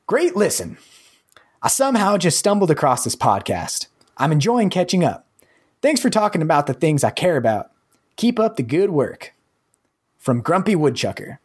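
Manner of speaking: put-on reading a fan review in an amateur Texas accent. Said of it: "And Mark is from Texas".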